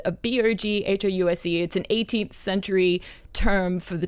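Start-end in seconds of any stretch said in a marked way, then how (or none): 0.1-1.6 spelling out. Shown as a demonstration. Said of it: "You can Google Boghouse".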